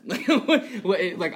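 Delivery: high, loud laughing "what, what"; cracking up while replaying the shock; laughing disbelief. Pastor retelling a childhood car ride, laughing at himself. Kid retelling panic to mom.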